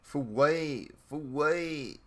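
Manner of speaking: imitated northern accent. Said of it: "it's the accent".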